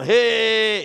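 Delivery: high, loud call of alarm; sudden warning call. Pretend. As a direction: stop them with a sharp hey. Warning about spiders in towels.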